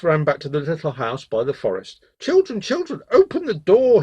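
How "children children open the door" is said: very high, sing-out motherly call; wolf's put-on high voice, calling; soft-voiced wolf. A narrator's reading. Wolf back at the little house calls the goats, falsely soft. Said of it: "heard the soft voice".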